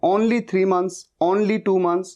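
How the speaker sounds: only said "AWN-lee" in each phrase; students' mispronunciation. Retold or imitated. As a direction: imitate learners opening only with "aw". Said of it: "कई students ये गलती करते हैं".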